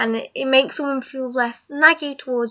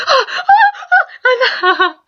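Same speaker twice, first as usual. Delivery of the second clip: startled scream; 12 semitones higher, 5 dB louder, slower than usual. Retold or imitated. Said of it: "I screamed waking up".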